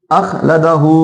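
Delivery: अखलदहु with final हु held long; stretched ending. Shown as a demonstration. Teacher gives another example, अखलदहु with long हु. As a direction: lengthen only हु in अखलदहु. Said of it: "इसी तरीके से आता है".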